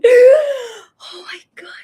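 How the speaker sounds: loud, high, slow swoon; real delighted squeal. Real, not acted. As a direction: gush over cute puppies. Cuddling the puppies.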